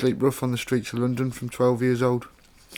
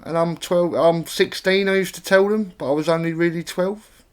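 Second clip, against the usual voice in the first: Cockney accent; 5 semitones higher than usual. Shown as a demonstration. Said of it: "when I used to talk like that".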